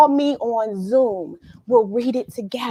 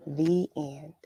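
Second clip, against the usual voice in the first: soft unvoiced whisper; whispered ending; 6 semitones lower, 9 dB quieter than usual. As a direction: breathe the last words out as a whisper. End of story read aloud.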